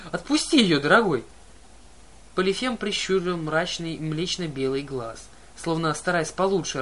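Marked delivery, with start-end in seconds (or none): 0.1-1.2 Grover as bride begging the cyclops. Acted. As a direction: beg sweetly, pitched up.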